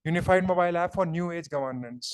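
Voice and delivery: slow, spaced-out dictation of a heading. Shown as a demonstration. Teacher dictating a heading for students to copy, slow. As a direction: spell the heading out slowly for note-taking.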